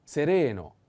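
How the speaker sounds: "Sereno" with RE punched; stress on second E. Shown as a demonstration. Teacher shows the missed word, "Sereno" stressed on RE. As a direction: lean on the middle syllable of "Sereno". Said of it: "put the accent on the second E".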